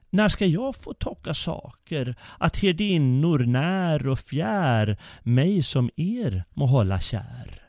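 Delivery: lightly voiced curious boy; a hint of a little boy's eager question; child asking. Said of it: "fråga så sin mor".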